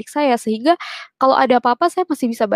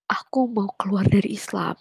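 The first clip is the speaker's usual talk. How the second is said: hushed, voiceless confession; whisper; 3 semitones lower, 5 dB quieter than usual. Retold or imitated. Telling her father by phone she is leaving Islam, whispered. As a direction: breathe it out, barely voiced, afraid to be heard.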